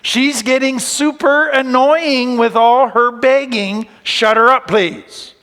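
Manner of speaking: mock-grumble about the pest; a hint of fed-up followers; annoyed disciples. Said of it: "the disciples come to him and they say".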